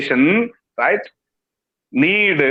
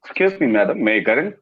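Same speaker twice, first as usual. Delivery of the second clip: polite request; 9 semitones lower, faster than usual. Shown as a demonstration. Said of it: "different tonalities shown in your voice".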